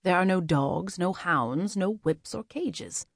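measured, gently insistent reassurance; gentle but firm. A narrator's reading. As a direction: reassure firmly, softening toward the end. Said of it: "his tone gentle but also firm".

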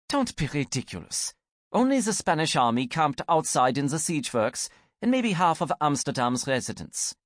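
dismissive. Acted. Gretchen voiced dismissive.

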